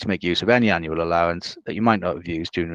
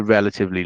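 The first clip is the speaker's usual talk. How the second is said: "relatively" given deliberate emphasis; stress on RELATIVELY; faster than usual. Real, not acted. Presenter cautioning clients about pension limits, stressing "relatively". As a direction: lean on the word "relatively". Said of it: "stress the word relatively here".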